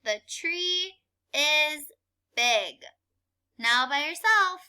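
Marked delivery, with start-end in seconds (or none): 0.0-2.8 slow choral reading. Shown as a demonstration. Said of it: "Read it with me".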